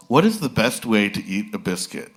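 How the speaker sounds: usual speaking voice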